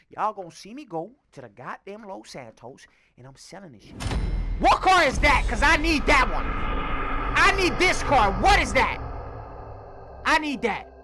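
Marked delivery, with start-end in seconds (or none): 4.6-10.9 excited. Real, not acted. Spots a car he wants.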